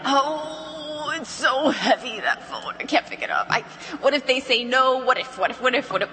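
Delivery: hammed-up reluctant whining, then nervous stammering; mock dread. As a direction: play at dreading the phone, sighing into worried repetition. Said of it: "dreading it".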